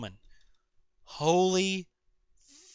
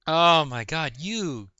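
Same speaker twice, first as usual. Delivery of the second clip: worked up. Real, not acted. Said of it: "I know I'm getting pretty worked up here".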